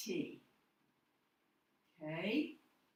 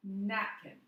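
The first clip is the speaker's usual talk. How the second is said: napkin, first syllable nap louder; stress on NAP; 4 dB louder than usual. Shown as a demonstration. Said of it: "The stress is on the first syllable".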